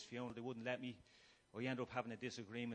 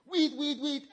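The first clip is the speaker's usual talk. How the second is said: much higher and louder, laughing while yelling "weed"; laughing mock shout; 13 semitones higher, 14 dB louder, slower than usual. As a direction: yell "weed" through a laugh. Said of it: "he hit me".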